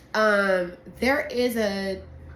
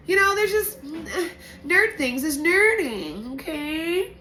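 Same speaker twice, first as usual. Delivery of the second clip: excited; 8 semitones higher, 3 dB louder than usual. Real, not acted. Excited about wine nerd stuff.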